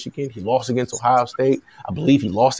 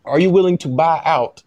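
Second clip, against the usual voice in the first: lightly put-on Louisiana Southern accent, measured negotiating; pretend Southern agent. Agent asks USC to cover his client's mortgages, in a light Southern voice. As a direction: play a slightly Southern agent making a polite demand. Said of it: "This is my Southern voice".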